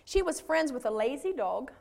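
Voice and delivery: storybook reading with measured phrases and pauses; read-aloud fable for a congregation; story narration. A narrator's reading. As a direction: read it aloud like a children's tale. Reads a children's story aloud.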